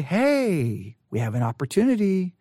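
a hint of a seductive invitation. Shown as a demonstration. Preacher demoing Potiphar's wife as mildly seductive. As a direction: lightly coax him in. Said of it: "did she say it in a seductive way".

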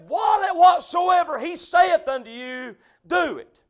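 punched, ringing key words; emphatic preaching. Acted. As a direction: declare the scripture to the whole congregation. Preaches the verse with force.

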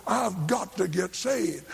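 "I've GOT to get saved", slow and weighted on GOT; urgent emphasis. Retold or imitated. Preacher quotes the husband back to him, slow emphatic urgency. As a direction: lean hard on "got", drawing it out. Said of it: "Why did you say it like that?".

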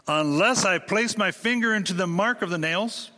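emphatic Thomas. Retold or imitated. Preacher voicing Thomas's demand for proof, building emphatically. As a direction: press each unless a little harder. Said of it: "his response is emphatic".

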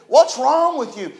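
a hint of a gruff pastor, slow and pointed; blunt pastor. Pastor asking the crying preacher, mildly mock gruff. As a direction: lightly imitate the pastor's blunt question. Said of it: "he said it just like that".

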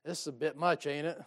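low, sly tempting voice; a hint of the flesh whispering doubt. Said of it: "my flesh kinda rears up and goes".

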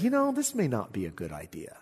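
whispered, doubtful aside; hushed whisper. Retold or imitated. The nations, afraid, whisper their hesitation. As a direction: breathe it like a nervous secret.

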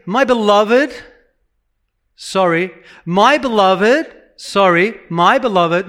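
singling out each person, apologetic; mock Paul calling them out one at a time; mock one-by-one address. Preacher mocking Paul addressing each believer singly.

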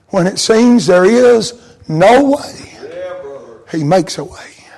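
szeptem, powoli. Acted. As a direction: hush it down to a whisper. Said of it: "repeated hymn line, whispered end".

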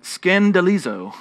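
Greek word in a Texan accent. Shown as a demonstration. Preacher sounding out a Greek word for the congregation, Texan accent. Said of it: "pronounce it in my Texan accent".

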